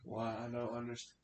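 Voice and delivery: hushed, voiced stab at whispering; attempted whisper. Player struggling to whisper back in character, hushed. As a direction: try to whisper, voice still showing. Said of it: "it's hard for me to whisper".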